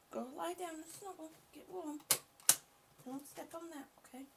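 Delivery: soft pet talk. Real, not acted. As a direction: murmur it to the dog so it settles. Talking softly to a pet.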